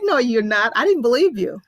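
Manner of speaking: disbelieving. Retold or imitated. Flatly disbelieving friend's news, retold.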